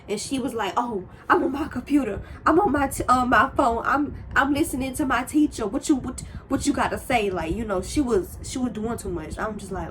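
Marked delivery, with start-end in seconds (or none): 0.8-7.3 imitating a defensive girl, a bit louder and higher; mock her snapping back at the librarian; sassy talk-back.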